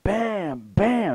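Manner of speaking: high, drawn-out bangs; imitated gunshots. Storyteller showing how loud the shooting was, imitated gunshots. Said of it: "it's really loud though".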